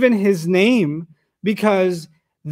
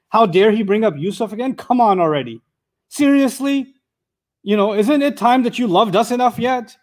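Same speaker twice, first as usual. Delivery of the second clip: a touch of sibling resentment; jealous brothers; 3 semitones higher than usual. Acted. Brothers complain about dad mentioning Yusuf again, resentful. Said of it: "their old jealousy ... fired up again".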